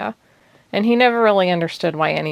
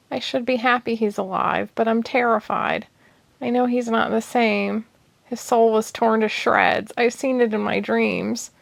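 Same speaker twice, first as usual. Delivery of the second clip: higher, frightened tearful voice; 5 semitones higher than usual. Acted. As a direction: fear breaking through tears. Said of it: "Suddenly she started sobbing".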